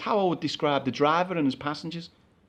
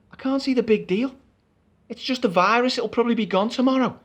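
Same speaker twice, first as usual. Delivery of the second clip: annoyed; 4 semitones higher, 4 dB louder than usual. Acted. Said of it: "I'm getting mad myself now".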